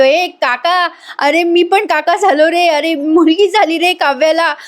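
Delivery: high-pitched, eager announcement; retold excited news. Young man phones his uncle about the baby, excited.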